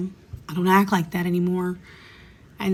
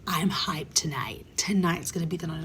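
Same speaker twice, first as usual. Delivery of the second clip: low scheming whisper; 2 semitones lower, 5 dB quieter than usual. Retold or imitated. Telling herself at the bar, hushed scheming. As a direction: plot it under your breath. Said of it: "and I was like".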